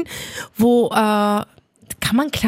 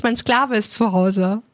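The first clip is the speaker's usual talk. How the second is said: friend quoted; slower than usual. Retold or imitated. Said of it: "Die so".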